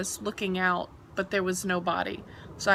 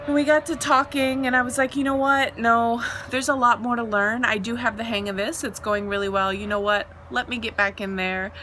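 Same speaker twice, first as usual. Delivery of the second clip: determined; 4 dB louder than usual. Retold or imitated. Insisting on going back.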